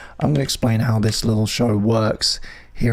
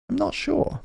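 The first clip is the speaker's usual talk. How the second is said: much higher, softer squeak; squeaky falsetto; 6 dB quieter than usual. Shown as a demonstration. Unsure about the playlist, he squeaks in a tiny falsetto. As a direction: squeak it like a cartoon mouse.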